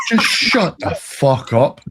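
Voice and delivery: emphatic, exasperated storyteller's put-down; retold fed-up comeback. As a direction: re-enact telling someone off, drawn out.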